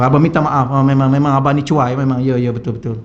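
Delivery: yes-dear humble agreement; meek admitting husband. Retold or imitated. Husband meekly agreeing as his wife scolds him before the boss.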